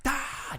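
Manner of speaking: high-pitched mock scream; cathartic yell. Speaker mimics the group going for it, high mock scream. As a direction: let go in a short high yell.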